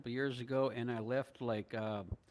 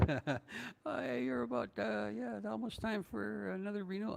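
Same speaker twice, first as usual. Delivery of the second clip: reading her text; 9 semitones higher than usual. Retold or imitated. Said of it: "she sends me, uh, a text message".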